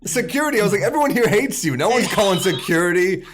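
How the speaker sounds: high-pitched, incredulous retort; mocking comeback. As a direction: throw her cry back at her in disbelief. Mocking her call for security.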